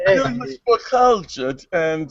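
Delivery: put-on refined British accent, amateurishly done; attempted British accent. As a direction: play cultured with a shaky British accent. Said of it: "do a British accent".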